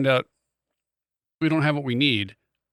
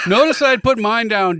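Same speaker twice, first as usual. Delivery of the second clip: slow, louder laughing admission; 7 semitones higher, 6 dB louder than usual. Real, not acted. Wife laughing about cracking her window. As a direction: laugh it out slowly.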